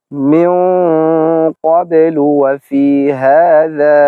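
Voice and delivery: ক্বাবলু recited slowly, the qaf heavy; slow Quran recitation. Shown as a demonstration. Teacher reciting a Quran example very slowly. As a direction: chant it slowly in tajweed style. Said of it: "তো আমরা উদাহরণ দিব".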